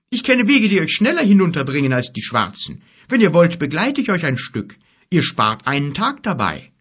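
an eager, helpful giant offers. A narrator's reading. Giant Gorg offers help.

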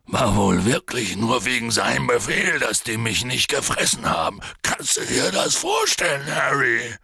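agitated, rising to a shout; big gruff voice bursting out; upset giant voice. Acted. Upset Hagrid exclaiming.

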